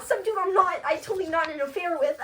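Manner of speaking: high, whiny fake-tearful wail; mock crying. Desdemona crying over Cassio, mock tearful wail. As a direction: wail it as hammed-up weeping. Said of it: "Desdemona starts crying".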